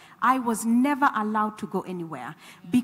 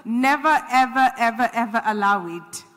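emphatic urging; 5 dB louder than usual. Real, not acted.

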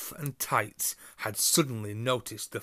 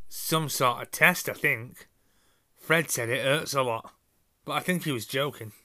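put-on nervous boy voice; 3 semitones higher, 5 dB louder than usual. Ron voiced answering Harry.

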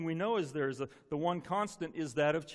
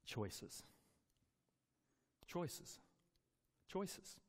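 soft, whispered, word left hanging; hushed repetition; 14 dB quieter, much slower than usual. Retold or imitated. Pastor recalling God's word, whispered softly. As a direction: let each word echo quietly.

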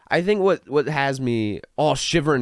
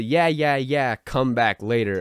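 higher, louder, slower dismissive jeer; aggressive mock; 4 semitones higher, 3 dB louder, slower than usual. Scene: vlogger throws the writer's dismissal back, aggressive mock. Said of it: "aggressive thing".

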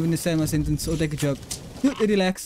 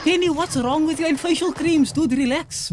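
mocking voice; 8 semitones higher than usual. Mock-quoting Kenny in a put-on voice.

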